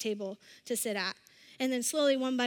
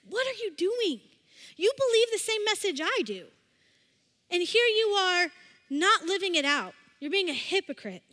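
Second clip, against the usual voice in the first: pitched-up, mildly indignant challenge; acted reproach, higher pitch, not shouted; calling him out; 5 semitones higher than usual. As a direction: confront a friend over their double standard. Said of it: "Paul isn't afraid to call out Peter".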